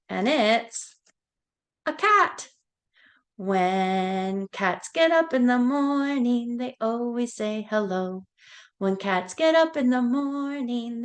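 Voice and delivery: sing-song nursery rhyme voice; reading to a toddler. Acted. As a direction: chant it brightly for little kids. Sing-song animal rhyme for kids.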